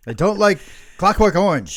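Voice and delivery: high, loud hammed-up New York complaint; New York Jewish accent. Mom naming the movie she hates, New York Jewish accent. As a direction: declare it as an indignant New York mother. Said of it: "from New York".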